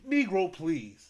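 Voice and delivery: slow, drawn-out dismissive line, lightly put on; Terry Crews impression. Vlogger acts out a White Chicks scene, slow mock sneer. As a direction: stretch it out like a scornful movie brute. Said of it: "He said".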